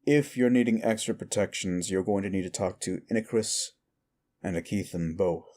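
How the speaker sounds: measured bartender laying out house rules; knowing bartender. Acted. Bartender advises a customer.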